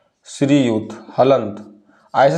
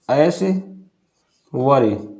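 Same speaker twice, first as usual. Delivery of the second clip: ऐश्वर्य stretched very slowly, ऐ-श्व-र्य; slow spelled out; 2 semitones lower, much slower than usual. Shown as a demonstration. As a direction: drag ऐश्वर्य out for dictation. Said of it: "ऐश्वर्य होता है".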